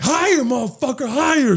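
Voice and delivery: high-pitched, insistent egging-on; mock urging. Cousin urging him to throw the groom, mock urging. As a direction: imitate a cousin goading, voice way up.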